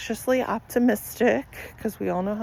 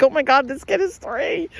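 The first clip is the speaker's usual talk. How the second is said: higher, retold disbelief; mock shock; 6 semitones higher, 5 dB louder than usual. Retelling her shock at the toddler's line, mock shock. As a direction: act out your own stunned reaction. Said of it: "I'm like".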